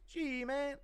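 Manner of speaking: high, put-on snooping voice; Happen Ace. Streamer acting someone tapping a phone, high loud caricature. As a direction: pitch it way up and push it. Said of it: "Impression of Happen Ace tapping your phone".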